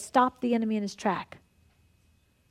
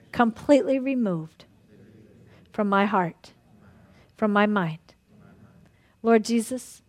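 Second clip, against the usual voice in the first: earnest prayer. Acted. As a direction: pray it out for the whole room. Leads a group prayer.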